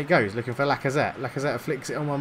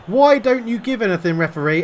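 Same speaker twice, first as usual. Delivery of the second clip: indignant protest; 5 semitones higher, 4 dB louder than usual. Real, not acted. Complaining at a missed foul.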